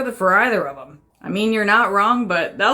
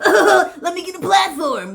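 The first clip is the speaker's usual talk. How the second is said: high, giggly mock kid voice; middle school child; 7 semitones higher, slower than usual. Critic mimicking a childish prankster, goofy high voice. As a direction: imitate a goofy schoolkid, drawn out. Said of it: "like if a middle school child".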